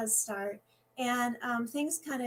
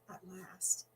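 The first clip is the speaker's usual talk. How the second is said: breathy whisper of relief; 4 semitones lower, 9 dB quieter than usual. Acted. Dance teacher to herself as the song ends, whispering. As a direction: let it out under your breath, spent.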